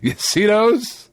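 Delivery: a hint of an unimpressed doctor; matter-of-fact doctor. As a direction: point it out like it's obvious. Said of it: "so matter-of-factly".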